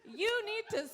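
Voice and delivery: upbeat infomercial pitch; ad read. Acted. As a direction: sell the product with a grin.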